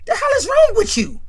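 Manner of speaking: high, loud exasperated yell; yelling back. Retold or imitated. Ronnie yells back at Junior, exasperated. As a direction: holler back through the door, stretched out. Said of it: "Ronnie yells back".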